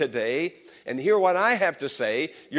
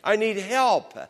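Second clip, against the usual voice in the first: pleading psalmist; 3 semitones higher, 5 dB louder than usual. Retold or imitated. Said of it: "the psalmist was saying".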